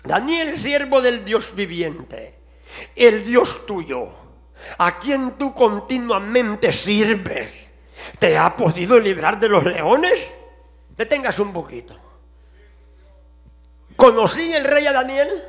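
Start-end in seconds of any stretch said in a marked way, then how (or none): 0.1-10.3 slow, mournful calling out; a lightly voiced grieving king; sad voice. King calling sadly into the lions' den, slow and mournful. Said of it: "a voces a Daniel con voz triste".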